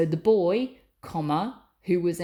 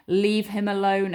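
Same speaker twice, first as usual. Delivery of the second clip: louder firm order; firm command; 5 dB louder than usual. Shown as a demonstration. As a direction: order them to stop. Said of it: "a command".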